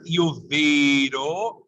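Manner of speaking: "io vedo" with a closed E. Shown as a demonstration. Teacher citing the master class piece, closed E in "io vedo". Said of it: "is closed".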